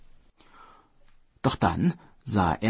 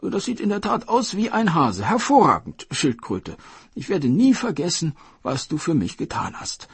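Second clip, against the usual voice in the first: gleeful Dragon King, higher and louder; delighted king; 10 semitones higher, 5 dB louder than usual. Acted. Dragon King inspecting the captured hare, delighted. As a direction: relish every feature of the hare. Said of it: "sagte der Drachenkönig".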